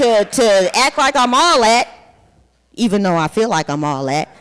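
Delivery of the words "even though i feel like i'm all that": laughing. Real, not acted. Boastful aside, laughing.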